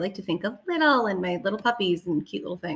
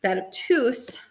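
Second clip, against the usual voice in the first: big, scary monster voice; 3 semitones higher, much slower than usual. Shown as a demonstration. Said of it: "a big, scary monster voice".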